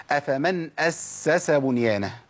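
أفمن أسس بنيانه slow, every s fully sounded; all three seens clear. Shown as a demonstration. Teacher modelling repeated seen, each s in أسس distinct. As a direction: dwell on the doubled s in أسس. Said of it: "أقول إيه؟".

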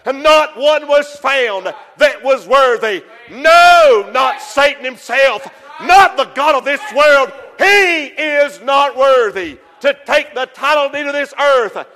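rising preacher's cry; full-force sermon delivery; preaching shout. Acted.

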